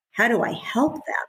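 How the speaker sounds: breathy whisper of a worried parent; whispered to herself. Acted. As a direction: whisper the question inward. Parent asking herself quietly.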